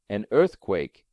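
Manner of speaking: low, calm and teasing; calm provoking. Acted. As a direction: needle him with calm. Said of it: "in the most calm and provoking tone".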